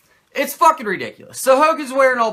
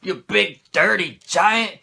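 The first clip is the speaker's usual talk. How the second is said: imitating Hogan; slower than usual. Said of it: "Hogan's all the time like".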